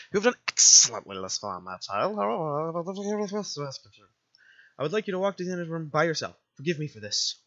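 put-on gentle guardian sending a child off; lightly voiced, formal motherly figure; motherly game guardian. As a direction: speak as a caring, proper guardian.

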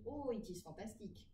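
English read with French pronunciation rules; evenly stressed English in a French accent. Shown as a demonstration. Teacher mimics students reading English by French rules, French accent. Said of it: "appliquer le code de lecture français".

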